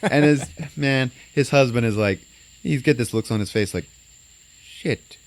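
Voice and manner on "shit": breathless whispered curse; whispered dismay. Retold or imitated. Friend retelling a movie, voicing the husband's whispered dismay. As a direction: mouth it under your breath.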